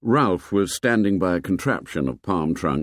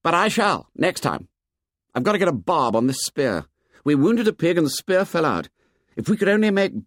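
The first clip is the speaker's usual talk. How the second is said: higher, hostile and defiant; audible antagonism; 10 semitones higher than usual. Acted. Jack defying Ralph about hunting, openly antagonistic. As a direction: push back at him with open hostility. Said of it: "Now the antagonism was audible".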